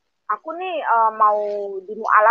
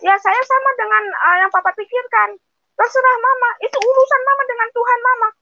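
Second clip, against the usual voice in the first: much higher, imitating the son echoing his father; higher-pitched son's voice, mildly dismissive; son's reply; 13 semitones higher than usual. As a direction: son telling his mother it is her choice. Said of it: "Anak saya malah, malah bilang gini".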